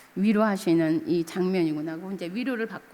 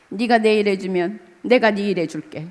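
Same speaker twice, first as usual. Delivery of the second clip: tearful prayer. Retold or imitated. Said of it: "눈물 콧물 흘리면서".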